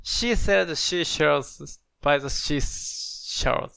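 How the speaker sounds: "seashells" and "seashore" starting with SH, like "she"; too many SHEs. Real, not acted. Student attempting the tongue twister, "sea" in "seashore" slipping into "she". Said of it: "sheが多いな".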